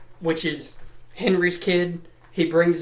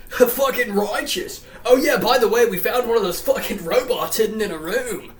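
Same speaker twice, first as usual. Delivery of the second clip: higher-pitched, hyped-up dude voice; security dude; 4 semitones higher than usual. Retold or imitated. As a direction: play an excited dude showing off a find. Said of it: "the security dude's like".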